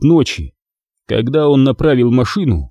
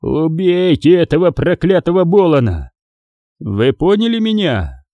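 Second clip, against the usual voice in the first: hissed in fury; 6 semitones higher than usual. Acted. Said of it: "прошипел он".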